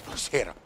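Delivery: "Jazero" with the J left unsounded; silent J. Shown as a demonstration. Caster explaining how to say the name, silent J in "Jazero". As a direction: say "Jazero" quietly, without its J sound. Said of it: "it's a silent J".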